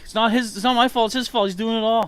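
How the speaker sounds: high, loud whiny complaint, blaming Link; whiny character voice. Acted. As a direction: whine it out, high and loud, pointing the finger.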